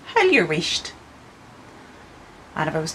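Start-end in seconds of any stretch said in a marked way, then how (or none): 0.1-0.9 "Hell your wisht" in a broad Ulster Scots voice; Ulster Scots hush. Shown as a demonstration. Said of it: "I'd say".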